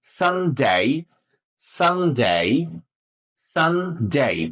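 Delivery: সানডে with a long gliding "ay" in ডে; posh pronunciation. Shown as a demonstration. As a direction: draw out "san-dey", tune dipping then rising. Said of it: "প্রথমে এটাকে ডে বলবেন".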